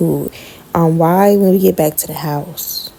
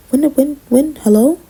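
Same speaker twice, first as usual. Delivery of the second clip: higher and louder, building outrage; indignant disbelief; 6 semitones higher, 3 dB louder than usual. Retold or imitated. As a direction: escalate into incredulous outrage. Indignant retelling, rising disbelief.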